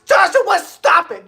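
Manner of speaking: high flustered protest; excited. Real, not acted. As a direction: scold him in delight. Flustered by donation.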